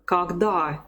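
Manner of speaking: Когда with the o turned to "a"; teacher's careful Когда, stressed on the final syllable; model pronunciation. Shown as a demonstration. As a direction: demonstrate Когда as "kag-DA". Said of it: "we pronounce it as R".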